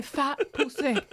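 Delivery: POUSSEY said slowly as French "poo-say"; put-on French accent. Woman answering "what's your name", French-accented POUSSEY. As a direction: stretch POUSSEY with a French "ay" ending. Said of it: "You're saying it wrong".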